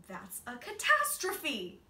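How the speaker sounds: put-on dramatic boy. A narrator's reading. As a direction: overplay the disaster like a child. Boy's dramatic outburst.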